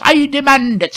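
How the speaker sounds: high, loud rustic constable; officious demand. A narrator's reading. Constable demands lanterns of the men, officious. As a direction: demand it with self-importance.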